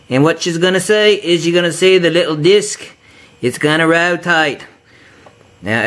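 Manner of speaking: a light, put-on Australian accent with "mate"; lightly voiced Australian accent; poor Australian accent. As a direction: lay on a thin Australian accent, like a bloke down under. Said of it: "attempt at an Australian accent there".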